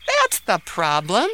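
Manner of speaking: slow, lit-up realization; brightly. Acted. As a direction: say it as a bright idea dawns. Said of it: "said Ahmed brightly".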